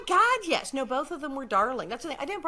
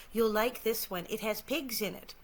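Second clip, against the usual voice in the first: deadpan; 5 dB quieter, slower than usual. Acted. Actress quoting her favorite line from the show, deadpan. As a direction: deliver it completely deadpan, softer at the end. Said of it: "I completely deadpan say".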